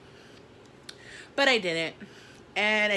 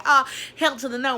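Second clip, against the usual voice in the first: loud, higher, outraged no; furious refusal; 8 semitones higher, 9 dB louder than usual. Retold or imitated. Phone dead, she refuses her boss, loud and outraged. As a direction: throw the no back hard. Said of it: "And I was just like".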